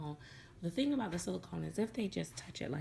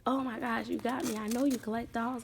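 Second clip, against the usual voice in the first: higher, louder retold disbelief; excited mock astonishment, pitched up; imitated amazement; 5 semitones higher, 5 dB louder than usual. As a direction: act out a man who's been fooled. Man reacts to being fooled.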